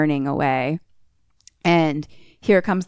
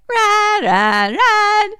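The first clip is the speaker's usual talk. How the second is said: urgent cries; 4 dB louder, much slower than usual. Retold or imitated. Urging characters to flee.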